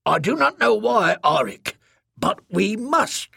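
high, halting plea; earnest alien speaker. Acted. Bitter speaker telling Arik they must stay, high and insistent. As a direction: insist gently in a high, lilting voice.

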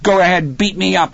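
high, loud defiant yell; tearful yell. A narrator's reading. Crying Dennis to his father, defiant yell. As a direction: yell it as a daring challenge. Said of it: "he yelled at Hal".

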